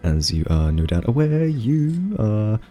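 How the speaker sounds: mock formal greeting. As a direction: speak like first contact with an alien. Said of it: "I can carry the conversation for a bit".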